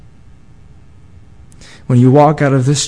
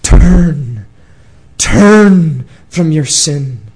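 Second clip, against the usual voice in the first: commanding; 5 dB louder, much slower than usual. Acted. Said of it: "commanding you".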